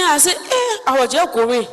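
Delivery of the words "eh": very high yelp of alarm; frightened woman answering the soldier, startled. Retold or imitated. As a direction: jump at being called.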